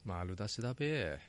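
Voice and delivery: slow, drawled Tochigi dialect, mock rustic. Host teasing co-host, hamming up Tochigi dialect. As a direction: lay on the Tochigi dialect playfully. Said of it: "栃木弁出てるかな？".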